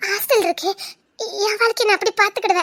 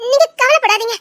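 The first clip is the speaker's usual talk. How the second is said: tearful; 3 semitones higher, 6 dB louder than usual. Acted. Tearful wife leaving husband.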